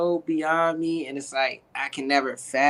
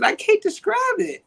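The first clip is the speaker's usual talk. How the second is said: laughing. Real, not acted. Still laughing after the shout.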